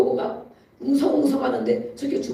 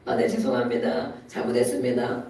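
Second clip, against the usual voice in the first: low, humble, meek apology; bow your head and mumble sorry; 10 semitones lower than usual. Retold or imitated. Preacher imagining apologizing to a street brawler, meek and low. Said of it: "이러고 가야 되겠다".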